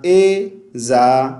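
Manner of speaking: ए जा with a plain ज; wrong reading. Shown as a demonstration. Teacher imitating the mistake for viewers. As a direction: split it into ए जा with a hard ज. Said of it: "एज़ा नहीं पढ़ना".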